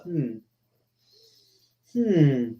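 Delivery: soft, low musing hums; deep in thought. Retold or imitated. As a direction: act out someone turning an idea over. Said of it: "he's in deep thought".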